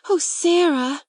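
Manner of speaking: high, loud cry of relief; cried out. A narrator's reading. Girl crying out as her friend finally arrives. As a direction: call out to Sarah, glad and startled. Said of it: "she cried out".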